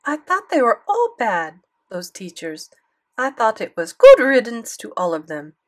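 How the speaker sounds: loud French granny scorn; French grandmother, scornful; French accent. Acted. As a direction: dismiss them with French disdain. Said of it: "thick French accent".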